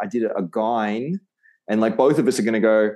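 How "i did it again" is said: again drawn out as "a-gine"; slow sentence ending on an off-target again; learner's mispronunciation. Retold or imitated. Imitating someone learning English, again said as "a-gine". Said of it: "like, someone learning English".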